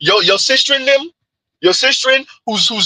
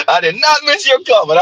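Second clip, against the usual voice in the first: through laughter; 4 semitones higher than usual. Real, not acted. Host cracking up at a comment.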